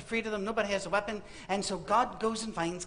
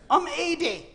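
put-on old man excuse; 7 semitones higher, 4 dB louder, slower than usual. Moses pleading excuse to God.

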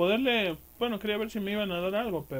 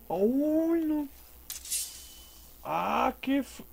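startled; 6 semitones higher, much slower than usual. Real, not acted. Startled in game.

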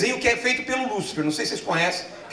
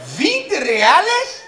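drawn-out seller; 8 semitones higher, 5 dB louder, much slower than usual. Retold or imitated. Seller naming price.

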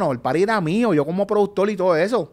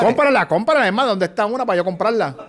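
excited; 6 semitones higher, 5 dB louder than usual. Real, not acted. Excited about buying records.

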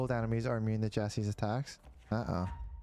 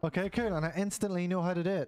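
higher, faster, breezy; mock breezy excitement; 6 semitones higher than usual. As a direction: rattle it off like it's nothing. Mocking heroine, higher faster.

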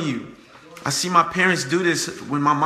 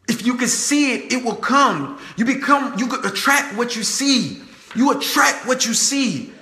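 raised pitch, measured preacher's emphasis; emphatic preaching; 6 semitones higher than usual. Real, not acted. Speaker urges viewers to picture success, emphatic preaching. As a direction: preach each phrase as a promise.

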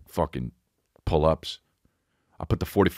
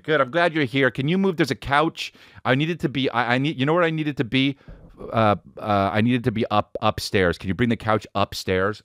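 high, bossy mom voice; mom impression; 6 semitones higher than usual. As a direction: play the mom who always needs something moved.

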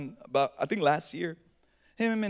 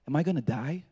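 low, small questioning voice; a touch of hushed fear; softly retold child's worry; imitating a scared son; 5 semitones lower, 4 dB quieter than usual.

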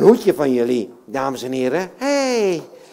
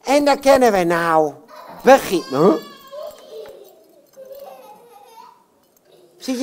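puppet voice; 3 semitones higher, 4 dB louder than usual. Acted. Puppet Jan Klaassen voice.

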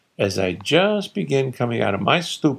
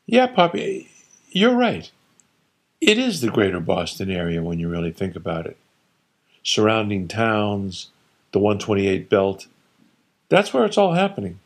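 playing along. Son humouring his father, mildly placating. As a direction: humour the old man, sweetly going along.

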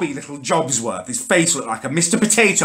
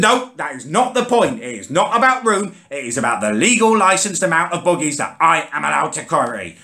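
pompous bus driver; 4 semitones higher than usual. Retold or imitated. Driver insists on rule.

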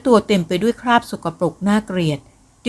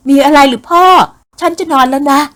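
much higher, much louder call back; 7 semitones higher, 6 dB louder than usual. Acted. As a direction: shout back irritated through the door. Daughter answers through door.

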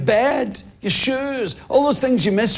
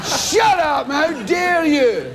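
high-pitched mock outrage; hammed-up indignation; indignant retort; 5 semitones higher, slower than usual. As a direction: protest as if deeply affronted. Acted retort to annoying stranger.

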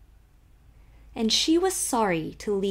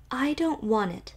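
loftily; 4 semitones higher than usual. Acted. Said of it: "said Emily loftily".

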